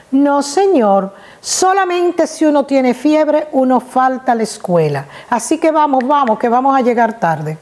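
put-on a little girl lecturing like a grandmother; like an old woman. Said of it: "le decía como una vieja".

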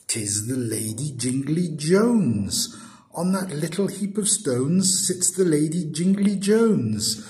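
lightly voiced suitor, lifting in pitch; Yonghy Bonghy Bò. Suitor spots the lady on the stones, lightly voiced wonder. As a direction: exclaim it as a lightly sketched character.

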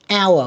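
"Hour" with the H left silent. Shown as a demonstration. Teacher showing pupils a mute letter, silent H in "Hour". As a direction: start "Hour" straight on the vowel. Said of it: "cũng không đọc ha".

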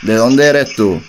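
low-key flirty star voice, barely changed; impression of a singer. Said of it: "te habla Lunay".

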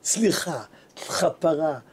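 hushed, retold begging for forgiveness; humbled apology. Rich man falls at the sage's feet, hushed pleading. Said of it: "בא, נפל לרגליו".

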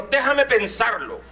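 slow, drawn-out thinking it over; slow, considering. Retold or imitated. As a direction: stretch out Déjame like a mother weighing it. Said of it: "ella dijo".

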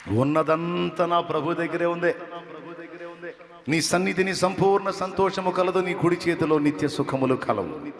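fervent sermon cry; full-force preaching. Acted. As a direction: proclaim it to the congregation.

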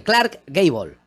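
"Clark Gable" in careful English, as GAY-bol; showing correct pronunciation. Shown as a demonstration. Showing he does know how to say it, English-style "Clark Gable". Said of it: "verás cómo yo sí lo sé decir".

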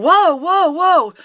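high, loud string of whoas; loud retold plea to stop; alarmed calming-down. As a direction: imitate someone urgently halting a blow-up. Retold bystander trying to calm her.

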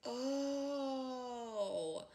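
very high shrieking laughter; laughing fit. Real, not acted.

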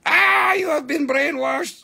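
mock hypnotist. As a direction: cast a hammy brainwashing spell. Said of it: "Okay, ready".

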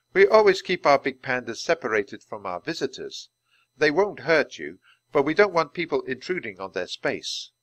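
a hint of a steady zookeeper; patient keeper. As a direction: explain it plainly like a kind teacher. Keeper character voice.

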